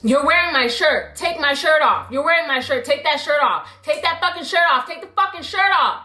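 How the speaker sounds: insistent orders, pitch climbing with each repeat; imitated barking demand. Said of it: "she was barking at you".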